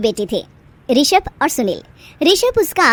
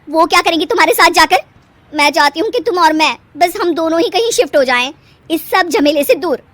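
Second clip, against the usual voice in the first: insistent wife; 5 semitones higher, 5 dB louder than usual. Acted. Wife persuades husband.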